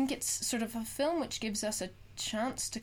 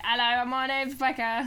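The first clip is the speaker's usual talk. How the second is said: impression of Becca; 3 semitones higher, 5 dB louder than usual. The speaker imitating her friend Becca with a jokey voice. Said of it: "when we do impressions of people".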